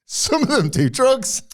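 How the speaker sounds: Some of them do drugs in a high slow sing-song; mock high quote. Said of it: "and I was like".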